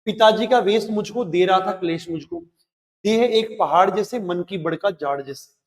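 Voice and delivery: rhythmic recital, each line lifted then let fall; verse read with a lilt; poem recitation. Acted. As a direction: recite the stanza for students.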